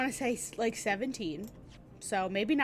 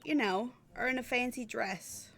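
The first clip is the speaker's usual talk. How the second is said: lightly attempted Cockney; bad Cockney accent. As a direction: try an unconvincing Cockney. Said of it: "a very bad Cockney accent".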